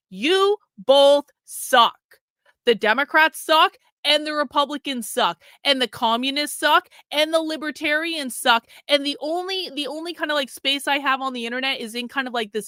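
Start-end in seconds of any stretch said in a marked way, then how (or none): 0.1-8.7 slow, louder, higher blanket dismissal; mock blunt declaration. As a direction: drag out every suck like a verdict. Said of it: "a reality in which I'm like".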